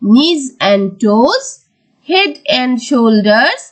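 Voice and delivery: slow, measured nursery-rhyme reading; very slow, phrases lifting, then falling to close; rhyme recitation. Shown as a demonstration. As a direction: recite line by line for pupils to follow. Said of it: "তাহলে আমরা রাইমসটা পড়ি".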